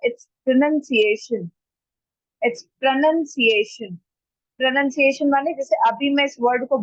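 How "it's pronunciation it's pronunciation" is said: "pronunciation" slowly, with a reduced first O; correct pronunciation. Shown as a demonstration. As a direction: say "pronunciation" as pruh-nun-see-AY-shun, slowly. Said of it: "ऐसा नहीं किया जाता". ("pronunciation" में ओ पर ज़ोर नहीं, धीरे)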